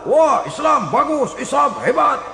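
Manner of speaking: mock enthusiasm. Opportunist praising Islam when it pays, mock enthusiasm. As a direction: imitate an opportunist's sudden admiration.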